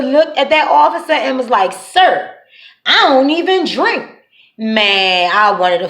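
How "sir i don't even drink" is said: mock innocent denial. Retelling sister's innocent lie.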